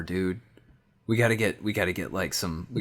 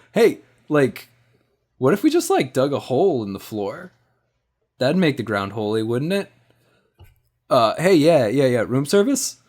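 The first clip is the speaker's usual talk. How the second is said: higher, louder, eager phone voice; chirpy questioning call to the desk; character on the phone; 5 semitones higher, 5 dB louder than usual. Acted. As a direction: play the hungover friend calling room service. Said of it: "picks up the phone and starts dialing".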